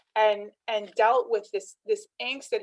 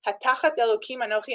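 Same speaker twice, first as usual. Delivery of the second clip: fast, louder angry Hebrew; angry retort; 4 dB louder, faster than usual. Retold or imitated. Yaakov answers Rachel's demand with a fast angry retort. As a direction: snap the Hebrew out fast in anger. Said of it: "very angry".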